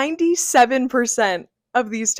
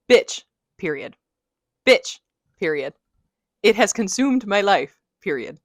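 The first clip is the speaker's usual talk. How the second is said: deadpan, emphatic, punctuation read aloud; dramatic text reading. Shown as a demonstration. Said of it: "Let's do a dramatic reading".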